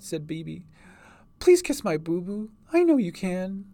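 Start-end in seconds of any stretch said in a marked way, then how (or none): 1.4-3.7 put-on high, pleading child voice; pleading little girl. A narrator's reading. Hurt girl begs for a healing kiss, pleading. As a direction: beg in a high girlish voice.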